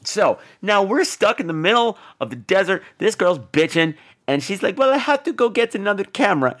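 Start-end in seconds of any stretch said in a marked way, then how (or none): 4.8-6.6 put-on lightly stilted, higher girl voice; a hint of bad movie dubbing; dubbed heroine. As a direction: mimic the complaining heroine, pitched up.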